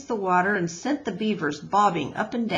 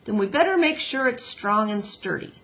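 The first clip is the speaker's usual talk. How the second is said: gruff beaver voice; 2 semitones higher, 3 dB louder than usual. Acted. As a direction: bargain like a grumpy beaver. Mister Beaver plans.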